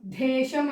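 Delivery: దేశం mispronounced as ధేశం; heavy dh in దేశం; wrong aspirated ధే. Shown as a demonstration. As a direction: put a puff of air on దే in దేశం. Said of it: "దేశం అనట్లే ఇక్కడ".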